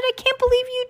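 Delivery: high upset outburst; angry. Acted. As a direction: scold him in a high shrill voice. Angry sister scolding.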